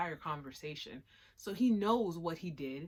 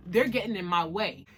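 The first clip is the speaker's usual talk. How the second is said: defiant retort; 2 semitones higher, 6 dB louder than usual. Retold or imitated. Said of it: "Kabane is like".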